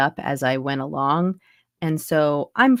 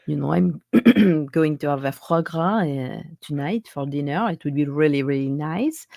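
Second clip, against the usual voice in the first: French accent. Shown as a demonstration. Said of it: "my regular French accent".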